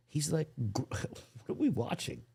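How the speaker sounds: whispered disbelieving aside. Real, not acted. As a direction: hush it in shock. Stunned viewer aside.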